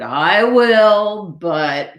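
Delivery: reluctant piglet, voice rising then dropping; agree, then trail into a stall; sighed. Acted. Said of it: "sighed the piglet".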